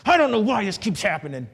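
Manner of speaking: mock-vent the frustration; a man venting at God, frustrated; frustrated complaint. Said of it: "when I talk like that".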